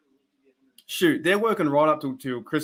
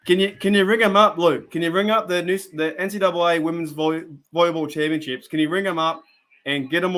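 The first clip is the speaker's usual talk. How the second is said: louder, higher eager request; excited plea; 3 semitones higher, 4 dB louder than usual. Real, not acted. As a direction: beg Luke eagerly, voice up. Excited plea to chat mod.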